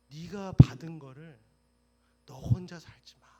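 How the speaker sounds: preacher urging the congregation to share; forceful exhortation. Acted. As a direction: press the point hard.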